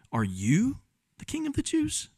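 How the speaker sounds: high, incredulous mocking question, emphasis on "you"; mock him with a rising, lighter voice on "you". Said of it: "Like a mocking type".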